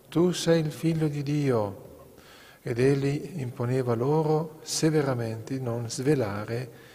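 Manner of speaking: measured, solemn scripture reading; liturgical Gospel reading. Acted. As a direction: proclaim the Gospel evenly to the congregation. Reads the Gospel at Mass. (lettura solenne del Vangelo)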